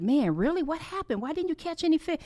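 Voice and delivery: mock incredulous. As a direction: play it as an incredulous questioner. Mock Jesus questioning Peter's empty nets.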